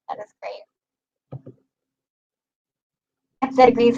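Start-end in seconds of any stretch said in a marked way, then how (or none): 0.1-1.5 slow whispered "that is great"; a slow, hushed whisper of approval. Real, not acted. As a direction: breathe it out slowly and unvoiced. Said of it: "soft trailing remark".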